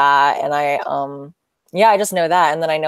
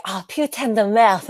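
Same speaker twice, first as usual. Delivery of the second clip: imitated romantic French swearing, pitched up; 4 semitones higher than usual. Imitating French people cursing you out, romantic. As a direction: curse as if saying "I love you". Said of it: "it sounds so romantic when they do".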